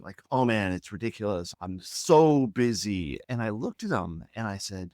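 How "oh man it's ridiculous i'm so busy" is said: retold complaint, dragging out the words; complaining. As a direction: imitate an overworked man moaning. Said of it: "literally complaining".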